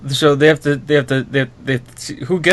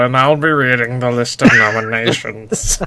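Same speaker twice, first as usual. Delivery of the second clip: lightly voiced stuffy English presenter; host the awards as a prim Englishman; Nigel voice. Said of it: "I can't help myself".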